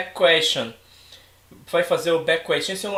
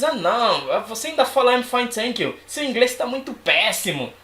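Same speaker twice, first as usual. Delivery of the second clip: higher, mock know-it-all putdown; espertinho do inglês; 6 semitones higher than usual. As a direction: imitate a show-off scorning someone's English. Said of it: "aqueles espertinhos no inglês". (imitando um espertinho esnobe)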